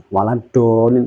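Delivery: "waladolin" with a tongue-tip d; misplaced dhad. Shown as a demonstration. Teacher pointing out the mistake, tongue-tip d in "waladolin". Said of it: "di ujung lidah".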